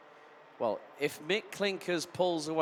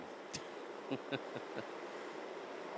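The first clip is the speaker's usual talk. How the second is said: villain laugh; 8 dB quieter than usual. Real, not acted. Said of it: "villain in a Star Wars movie with that kind of laugh".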